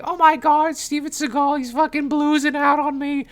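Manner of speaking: mock excited fans. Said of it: "everyone else is like".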